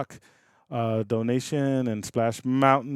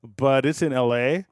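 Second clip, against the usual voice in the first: mock corporate Disney voice; 7 semitones higher, 7 dB louder than usual. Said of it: "It's like".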